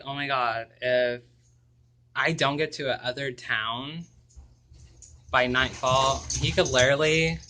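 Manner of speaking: retold panic. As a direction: replay the fear of being hunted on the highway. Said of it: "I was flipping out".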